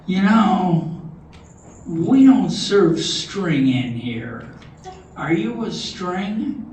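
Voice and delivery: slow, measured suspicion, question lifted at the end; a hint of a wary bartender sizing someone up; mildly suspicious. Joke bartender questions the disguised string, mildly suspicious.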